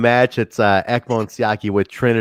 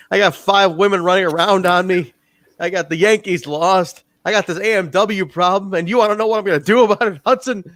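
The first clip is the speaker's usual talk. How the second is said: mock southern cowboy voice, higher; 8 semitones higher than usual. Friend retelling a wrestler's backstage promo in a mock southern voice. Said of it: "like, a southern voice".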